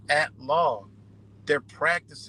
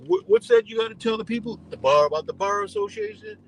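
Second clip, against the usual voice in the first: high, louder mocking host voice; mock interviewer; 8 semitones higher, 5 dB louder than usual. Mocking a disguised TikTok informant, high and hammed-up. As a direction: squeak it out like a silly conspiracy host.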